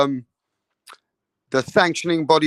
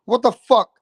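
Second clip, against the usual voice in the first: incredulous; 6 semitones higher than usual. Real, not acted. Reacting to anxiety claims.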